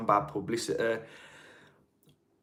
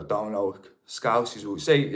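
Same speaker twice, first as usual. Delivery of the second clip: broad Brummie "Don't like", pitched lower; proper Brummie accent; 3 semitones lower, slower than usual. Shown as a demonstration. Streamer showing viewers how a Brummie says "like", broad Brummie. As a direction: lay the Brummie accent on thick and low. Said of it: "I'm gonna go proper Brummer".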